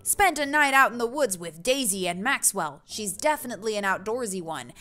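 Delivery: big, chummy dad voice; hearty neighbor dad. Acted. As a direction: boom out a hearty greeting. Plays Brian bragging about camping.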